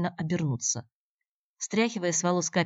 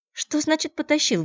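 much higher, louder indignant cry; 11 semitones higher, 7 dB louder than usual. A narrator's reading. Natasha bristles at Andrey, indignant outburst. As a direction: flare up at the word. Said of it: "возмутилась Наташа".

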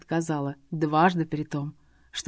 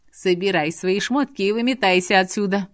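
hissing; 4 dB louder than usual. Acted. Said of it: "прошипела драконица".

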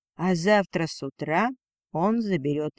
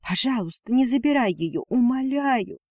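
begging, rising higher to a plea; pleading; 6 semitones higher than usual. A narrator's reading. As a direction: beg him not to take the child. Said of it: "уже спокойнее сказала женщина". (мольба матери к мужу, умоляюще)

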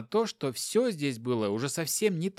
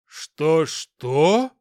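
full-voice, much louder demand; loud disbelief; 9 dB louder than usual. Acted. Hopkin can't believe his wife's accusation, loud shout. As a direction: bellow back in disbelief. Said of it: "во весь голос переспросил Хопкин".

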